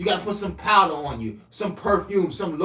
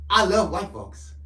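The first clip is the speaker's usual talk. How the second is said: line repeated louder and punchier for the clip; louder retake; 4 semitones higher, 5 dB louder than usual. Shown as a demonstration. Redoing the line for a short, louder. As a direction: say it again with more punch. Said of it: "Make this one into a short".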